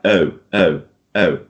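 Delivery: oh as a British rounded glide. Shown as a demonstration. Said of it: "in British English, it will sound like".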